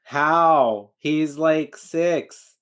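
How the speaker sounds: loud, high, incredulous outburst; real incredulity. Real, not acted. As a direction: burst out in disbelief at the absurdity. Reacting to child boarding a train.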